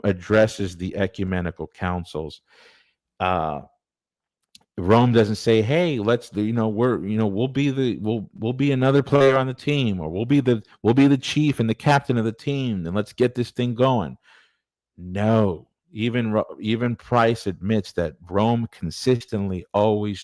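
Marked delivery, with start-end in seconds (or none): 5.6-14.2 mock team-player pep. Mock quote of what Rome doesn't say.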